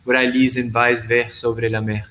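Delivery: measured reading of a multilingual poem; poetry recitation. Acted. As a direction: recite it line by line, lingering on some phrases.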